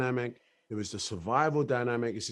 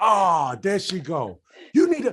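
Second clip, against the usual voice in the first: very loud, swooping holler; 7 semitones higher, 9 dB louder than usual. Retelling the audience at the premiere shouting at the screen: imitating people screaming at the screen. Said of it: "People were screaming at the screen like mad".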